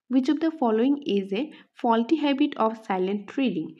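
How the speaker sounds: reads the quiz question out slowly; slow, even question reading. Shown as a demonstration. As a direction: dictate the question word by word.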